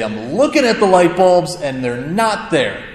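put-on a touch of exasperated teen, slowing at the end; frustrated. Mildly frustrated son protests to mom about the shelf. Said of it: "I'm getting frustrated".

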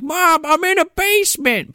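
high, held-up imitation of a kid; high-pitched mock plea down the phone; mock cry for help. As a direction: call out to mom in a put-on high voice. Kevin calling mom on bad phone.

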